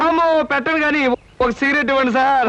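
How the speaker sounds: high mock moan then a sly ask; groan, then cash in on it; faked groan. Milking fake injury for cigarette. (నటించిన మూలుగుతో అడగడం)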